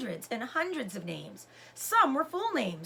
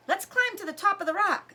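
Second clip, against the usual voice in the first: higher, louder excited call; eager call; 8 semitones higher, 5 dB louder than usual. A narrator's reading. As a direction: shout it while running uphill. Sam excitedly racing up.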